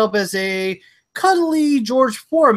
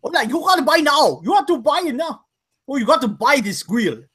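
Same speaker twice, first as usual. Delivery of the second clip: a hint of Kahn, pitched up a little; Kahn-style sales pitch; 5 semitones higher than usual. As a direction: sell the grill like the neighbor Kahn. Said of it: "I sound like Khan?".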